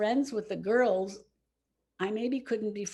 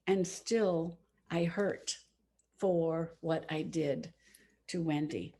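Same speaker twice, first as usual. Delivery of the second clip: slow sorrow; slower than usual. Real, not acted. Lasting regret.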